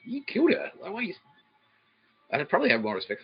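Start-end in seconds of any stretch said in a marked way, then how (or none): 0.1-1.1 higher, stunned accusation; outraged high reply. Retold or imitated. Nick answering the fake apology, higher and outraged. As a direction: hurl it back in disbelief. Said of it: "I'm like".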